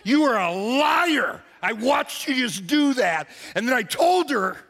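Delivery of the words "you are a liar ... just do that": angry accusation. Retold or imitated. Pastor repeating the accusation to her face, angry. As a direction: hammer it home again. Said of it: "I called her a liar to her face".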